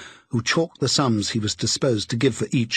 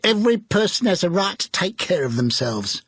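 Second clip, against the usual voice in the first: defiant charwoman; 8 semitones higher than usual. A narrator's reading. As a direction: toss it out boldly.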